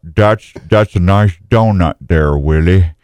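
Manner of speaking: slurred, mushy-mouthed slow mountain man; Mountain Man Rob. Acted. Host mimics Rob as Duck Dynasty's Mountain Man, mock slurred drawl. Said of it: "That's what Rob sounds like".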